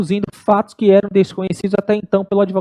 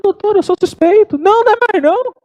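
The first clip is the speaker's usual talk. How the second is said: mock heated protest; 11 semitones higher than usual. Heated exchange retold in class.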